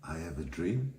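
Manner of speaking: softly offered, rising at the end; gentle. Retold or imitated. Speaker gently answering a delegate's trick question, gentle. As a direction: say it gently, a little tentative. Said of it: "I very gently said".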